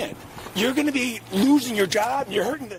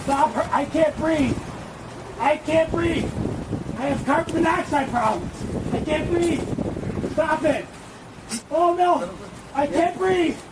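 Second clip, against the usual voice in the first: pleading; 2 semitones higher than usual. Real, not acted. Man pleading under restraint.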